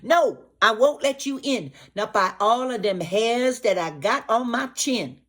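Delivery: high loud pig yell; high, loud little pig refusing the gator; frightened pig shout. Acted. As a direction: shout defiance from behind the door. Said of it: "That's when Tousse Claire shout".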